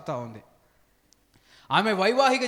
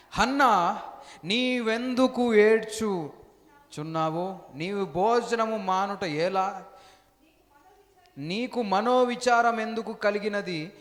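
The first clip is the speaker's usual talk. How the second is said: husband pleading with wife; 2 semitones higher, slower than usual. Acted. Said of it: "అని ఆమెతో చెప్పుచూ వచ్చెను". (భార్యను అడుగుతున్న భర్త గొంతు, నెమ్మదిగా)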